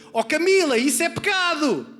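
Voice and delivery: high, loud scolding yell; mimicked kid's shout, loud and high; child shouting from upstairs. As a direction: imitate a little boy yelling an accusation at his sister. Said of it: "a gritar assim".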